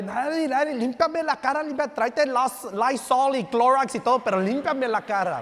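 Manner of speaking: high, loud panicked shout for help; frantic yelling. Retold or imitated. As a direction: yell to your wife in comic panic. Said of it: "le gritaban a Eli".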